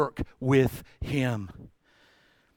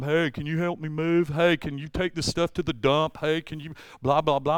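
mock caller. Callers asking for truck.

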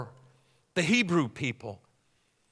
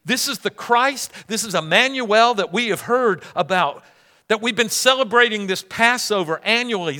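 higher-pitched questioning disbelief; incredulous audience; 4 semitones higher than usual. Acted. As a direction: stop short and question it, amazed. Acted amazed audience reaction.

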